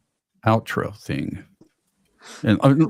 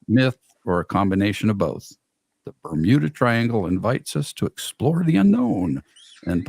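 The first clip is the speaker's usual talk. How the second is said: sexy voice. Pretend. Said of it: "let's see if I can do this in my sexy voice".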